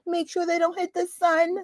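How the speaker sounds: nerdy collector voice. Retold or imitated. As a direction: fuss over the magazines. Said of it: "It's like".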